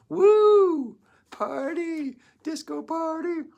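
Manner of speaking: high, loud party cheer; mock party whoop. Mocking post-election partying.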